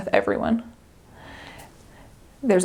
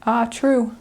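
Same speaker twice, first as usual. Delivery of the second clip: put-on New Zealand accent. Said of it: "they say".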